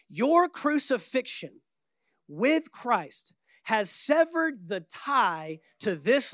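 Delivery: very slow solemn reading; scripture reading. Acted. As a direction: drag the verse out slowly. Reading Passion Translation.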